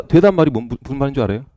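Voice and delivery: ordinary delivery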